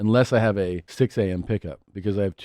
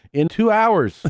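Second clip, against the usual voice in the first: high exasperated; 13 semitones higher, 4 dB louder, much slower than usual. Retold or imitated. Parents refuse son at dawn.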